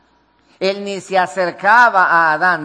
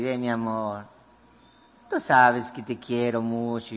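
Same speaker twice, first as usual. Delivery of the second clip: sweet-talking wife; 8 semitones lower, 6 dB quieter than usual. Retold or imitated. Wife sweet-talking her husband alone in the bedroom, low soft coo. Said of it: "le habla al oído".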